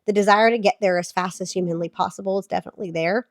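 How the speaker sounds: hoarse sick voice; talking through a cold. Real, not acted. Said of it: "sorry for my sick voice".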